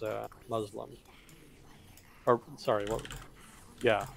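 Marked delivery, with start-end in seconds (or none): 0.5-0.9 "Muslim" as MUZ-lum; English-style "Muslim", short first vowel; English pronunciation. Shown as a demonstration. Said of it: "the English is".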